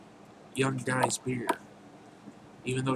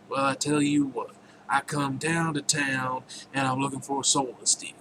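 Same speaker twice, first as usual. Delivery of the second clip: put-on Southern accent. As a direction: play a deal-making devil with a slight Southern twang. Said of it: "give him a nice southern accent".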